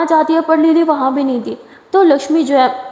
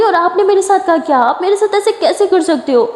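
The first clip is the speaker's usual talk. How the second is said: angry; 5 semitones higher than usual. Acted. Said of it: "लिली बहुत ही ज़्यादा गुस्सा हो जाती है".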